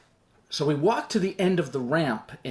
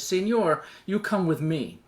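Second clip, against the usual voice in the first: put-on lightly accented soldier's order in broken English; 3 semitones higher than usual. Soldier summons passenger from his seat, in broken English. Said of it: "he talks in broken English".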